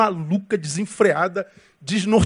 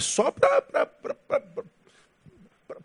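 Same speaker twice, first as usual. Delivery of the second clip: laughing; 6 dB quieter, slower than usual. Real, not acted. Preacher breaks off laughing.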